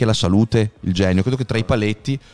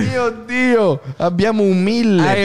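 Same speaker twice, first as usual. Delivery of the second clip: high, slow hammed-up amazement; mock astonished auctioneer; 8 semitones higher, slower than usual. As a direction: gasp it like a shocked auctioneer. Bid jumps to a thousand. (banditore stupito, esagerato)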